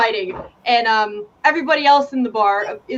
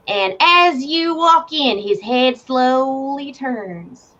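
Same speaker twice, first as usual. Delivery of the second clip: slow, suspenseful game master narration; dramatic scene setting; 2 semitones higher than usual. Acted. Game master sets the tavern scene, slow and suspenseful. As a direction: draw the moment out slowly.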